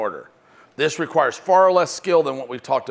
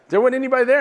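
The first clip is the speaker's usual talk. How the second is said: put-on high, louder, confused young clerk; puzzled kid; 10 semitones higher, 5 dB louder, much faster than usual. Young clerk telling his boss the call was empty, high puzzlement. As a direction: sound baffled and a bit hurt.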